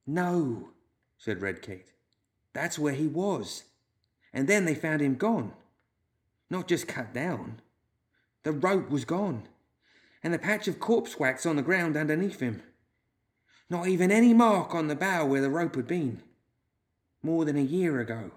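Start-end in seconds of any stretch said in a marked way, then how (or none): 0.1-0.7 Red Kate's reply. A narrator's reading. Red Kate answers Loomis in story. 2.5-18.3 storytelling Red Kate. A narrator's reading. Woman tells the others of the vanished hanged man, deliberate.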